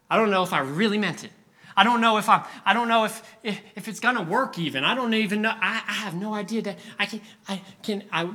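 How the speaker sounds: lightly acted stammering uncertainty; anxious doubter. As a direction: fret aloud, tripping over the words. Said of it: "you're that first boy".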